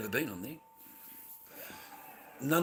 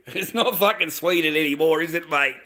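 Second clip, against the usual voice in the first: laughing; 5 semitones higher, 7 dB louder than usual. Real, not acted. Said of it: "sorry for laughing".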